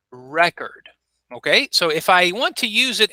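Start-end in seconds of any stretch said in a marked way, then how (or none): 0.1-0.9 「Record」の頭を強く、REC-ord; noun stress. Shown as a demonstration. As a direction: stress REcord on the first syllable. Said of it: "we would pronounce it like this".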